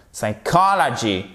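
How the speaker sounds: "Psychology" as "sai-KAH-la-gee"; stress on COL. Shown as a demonstration. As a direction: lean on the second syllable of "Psychology". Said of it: "partir de l'accent tonique".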